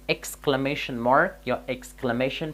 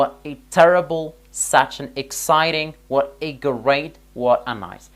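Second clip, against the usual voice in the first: each phrase louder and slower, as an exclamation; exclamatory examples; 5 dB louder, much slower than usual. Shown as a demonstration. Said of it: "در اینجا گفتیم".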